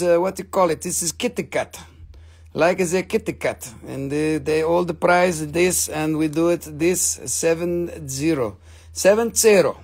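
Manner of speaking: put-on Russian accent. Seller pitching Russian charoite, mock Russian accent. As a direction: play a Russian trader with a thick accent.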